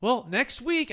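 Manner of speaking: lightly imitating a Boston client; Boston accent. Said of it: "I can't even do the Boston accent".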